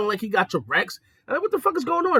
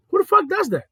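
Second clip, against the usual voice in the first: higher, louder repeat of Who the fuck does that; exasperated outburst; 13 semitones higher, 4 dB louder than usual. Shown as a demonstration. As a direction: throw the question up loud.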